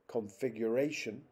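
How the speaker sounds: "configuration" with main stress on RA; stress on fourth syllable. Shown as a demonstration. Lecturer showing fourth-syllable stress in English, fourth syllable stressed. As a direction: lean on RA in "configuration". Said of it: "the fourth".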